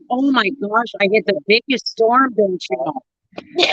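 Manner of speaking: playful northern Minnesota accent, slowing at the end; Minnesotan accent. Shown as a demonstration. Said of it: "I'm from northern Minnesota".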